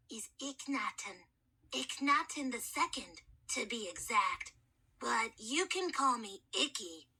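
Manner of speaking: put-on a boy's voice unused for millennia; gentle, courteous mummy soothing a scared boy; hoarse mummy kid. Mummy voice held.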